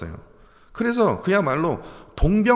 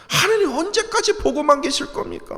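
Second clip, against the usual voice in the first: higher, pleading cry; a preacher voicing David's cry of complaint; mock wailing plea; 10 semitones higher than usual. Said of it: "막 울부짖었는데".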